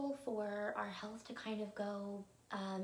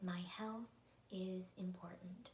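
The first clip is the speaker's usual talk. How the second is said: meditation affirmation; 4 dB quieter, slower than usual. Acted. Presents the evening affirmation.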